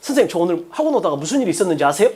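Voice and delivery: 학원 lifted into a rising question; teasing question. Shown as a demonstration. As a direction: hook the teacher with a question. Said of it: "이렇게 말하는 애가 있다고". (궁금증을 유발하는 질문)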